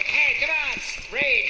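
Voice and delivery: loud, brash rat character; New York rat. Acted. Rats urging each other to raid, loud and brash. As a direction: shout it like a pushy city rat. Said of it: "New York rats will be going".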